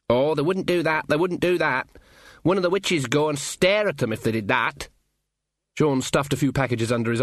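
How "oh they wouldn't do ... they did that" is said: higher-pitched simple assurance; unworried country youth. Acted. Sean reassuring Ponder that nobody steals letters, unworried. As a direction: dismiss the worry with easy certainty.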